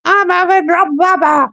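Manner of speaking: high, put-on English lady; English accent. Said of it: "you've got a blooming English accent".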